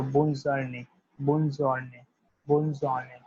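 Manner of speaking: bonne journée said slowly as "bun zhor-nay", a French greeting drill; बोन्न जूर्ने को धीरे-धीरे French उच्चारण में बोलो. Shown as a demonstration. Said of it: "Have a nice day means bonne journée".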